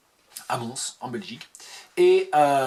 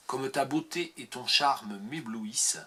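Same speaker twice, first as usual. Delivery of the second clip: poetry reading. Acted. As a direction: read it as a tender poem. Reads a poem aloud.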